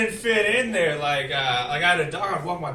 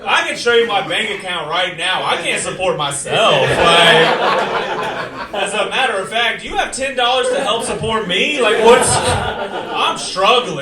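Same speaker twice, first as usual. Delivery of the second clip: pleading; 3 semitones higher, 11 dB louder than usual. Retold or imitated. Defending to bar door lady.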